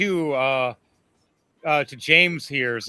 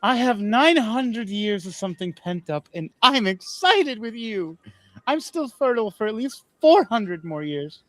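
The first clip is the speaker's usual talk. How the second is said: lusty queen; 5 semitones higher than usual. Acted. Queen voiced lustfully.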